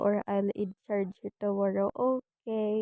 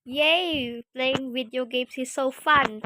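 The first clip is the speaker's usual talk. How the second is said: excited cheer. Pretend. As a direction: cheer it like a thrilled kid. Pretend child cheering over games.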